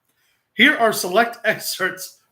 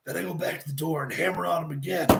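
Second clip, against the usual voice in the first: lightly voiced Jake Roberts, lower and looser; 3 semitones lower, 5 dB quieter than usual. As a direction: tell it as Jake the Snake would. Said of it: "At least the Jake voice".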